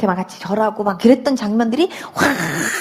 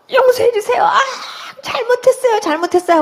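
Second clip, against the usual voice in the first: higher, tearful cries for forgiveness; higher pleading sobs of sorry; crying plea; 9 semitones higher than usual. Retold or imitated. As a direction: sob out the apology, bent over. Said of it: "하고 우는데".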